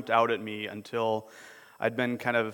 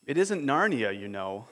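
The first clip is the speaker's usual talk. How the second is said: sobbed. Acted. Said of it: "sobbed Lucy".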